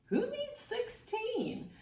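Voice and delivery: high, slow scornful question; defiant retort. Acted. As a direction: scoff at the teacher.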